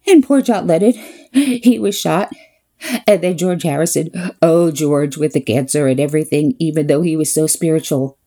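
a touch of sobbing self-pity; mock tearful lament. Date grieving a famous band, a hint of mock weeping. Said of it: "And in between tears, he says".

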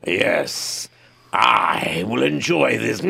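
slow, savoring Russian menace; slow Russian accent; other kind of Russian. Acted. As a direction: draw it out like a gloating villain. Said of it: "the other kind of Russian".

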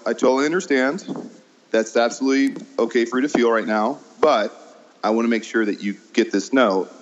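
calm, measured reassuring note; steady and patient, no gushing; slowed-down reassurance. Retold or imitated. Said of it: "I'll slow down my apology".

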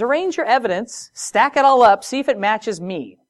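a lightly voiced confident God daring them; God's challenge. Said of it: "And God says".

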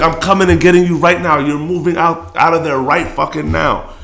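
a hint of a mother laying down the law; mom's orders.

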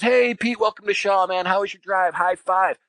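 high, upbeat buddy greeting; friendly buddy voice. Retold or imitated. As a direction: greet him like an old pal.

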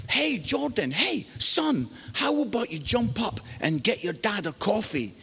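high call, then casual request; calling his son. Retold or imitated. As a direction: call over your son, imitating a breezy dad. Father calling son before leaders.

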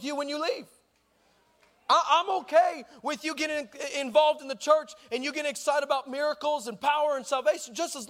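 emphatic preaching. Real, not acted. Preacher chiding churchgoers chasing sparks, emphatic preaching. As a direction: pile up each phrase like a preacher building a point. Preaches with raised pitch and force.

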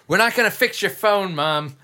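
high, loud imitation of fed-up offspring; exasperated mock outburst. Imitating friend at the beach after three days of Mom's phone, exasperated. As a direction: burst out at a nagging mom, hammed up.

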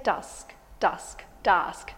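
dusk with a clear short u; dusk said carefully. Shown as a demonstration. Chat partner demonstrating how she says dusk. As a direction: say "dusk" with an open short u, then repeat it. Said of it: "You say dusk".

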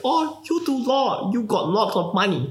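hammed-up Asian accent of a nagging relative; mock Asian accent. Mocking his Asian relatives about law money, in a high put-on Asian accent. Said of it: "that's my best Asian accent".

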